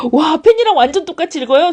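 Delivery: high-pitched amazed praise. Shown as a demonstration. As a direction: gush as if astonished by a child's reading. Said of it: "그럼 막 물개박수 쳐주세요". (놀라서 감탄하는 높은 말투)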